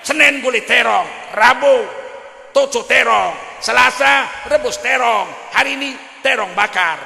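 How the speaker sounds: loud, whiny rant about eggplant again; hammed-up brat yelling at his mother; a spoilt son shouting that it's eggplant every day; mock shouting child.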